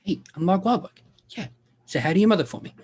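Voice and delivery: put-on high, loud Boston accent; hammed-up Boston tough guy; Mark Wahlberg. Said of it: "trying to do a Boston accent".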